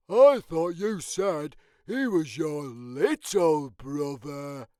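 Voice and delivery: high, light character voice; Norman voice. Acted. Norman agreeing to the sleepover, high and bright. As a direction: lift into a small creature's voice.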